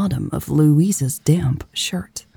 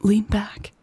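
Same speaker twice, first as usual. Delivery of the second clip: higher, softer gentle urging; 4 semitones higher, 5 dB quieter than usual. Acted. Elle to aching Louise, softly urging. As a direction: coax her softly to lean back. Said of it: "Elle urged softly".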